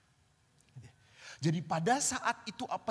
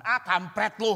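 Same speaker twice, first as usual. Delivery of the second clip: loud joking curse; 3 semitones higher, 7 dB louder than usual. Retold or imitated. Mock insult to a friend.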